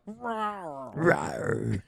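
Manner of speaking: rising playful roar; Panther roar. Pretend. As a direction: roar for the touchdown.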